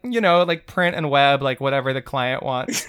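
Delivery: depressed, bored answer. Shown as a demonstration. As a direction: sound like you hate your job. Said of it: "I say it like a person who hates their job".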